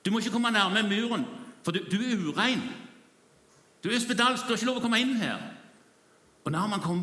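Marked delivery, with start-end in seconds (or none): 0.0-5.5 guards calling out. Retold or imitated. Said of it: "Og de roper".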